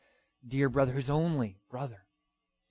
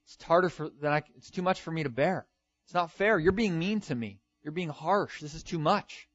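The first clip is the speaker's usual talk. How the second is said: higher-pitched mock protest; complaining; 4 semitones higher than usual. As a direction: act out an aggrieved "not fair" whine. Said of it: "he complains".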